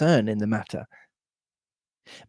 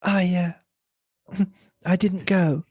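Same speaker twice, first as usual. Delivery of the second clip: higher-pitched, abrupt character reply; 5 semitones higher than usual. A narrator's reading. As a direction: answer abruptly, a little higher. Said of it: "she replied abruptly".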